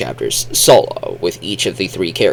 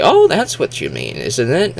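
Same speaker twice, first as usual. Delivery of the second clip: higher mock realisation; imitated translators; 4 semitones higher than usual. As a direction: play someone suddenly catching on. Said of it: "and say".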